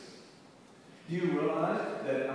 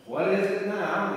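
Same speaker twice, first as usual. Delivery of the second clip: louder, higher, mock irritation; exasperated bartender; 4 semitones higher, 7 dB louder than usual. Bartender to the returning duck, exasperated. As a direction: act out a fed-up bartender.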